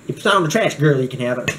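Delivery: half-hearted imitation of a Black girl's speech; lightly put-on, sassy Black girl voice; attempted Black girl impression. Vlogger jokingly refusing viewers, in a mock Black girl voice. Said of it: "I can't even say it like a black girl".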